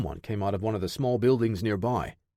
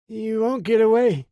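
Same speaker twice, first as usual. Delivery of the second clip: much higher, louder slurred defiance; 11 semitones higher, 6 dB louder than usual. Acted. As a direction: force the words out through a beaten mouth. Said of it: "he slurred".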